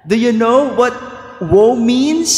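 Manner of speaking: prodding shout. Real, not acted. Preacher prodding silent congregation.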